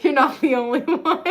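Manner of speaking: ordinary talk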